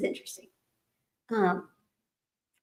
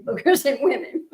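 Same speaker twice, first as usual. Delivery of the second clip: words broken by giggles; laughing; 4 semitones higher than usual. Real, not acted. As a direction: laugh as you say it. Laughing while retelling her joke.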